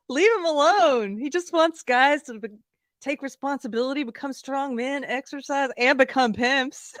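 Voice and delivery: high-pitched, jokey pleading; mock indignant defence. Mock defence, re-enacting the joke.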